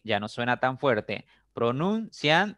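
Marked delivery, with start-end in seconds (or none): 1.5-2.6 «Pronuncian» lento y agudo, marcando «nun»; acento en «nun». Shown as a demonstration. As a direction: separa las sílabas y resalta «nun» en «Pronuncian». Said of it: "esa ya sonó". («Pronuncian» despacio, con la sílaba «nun» fuerte)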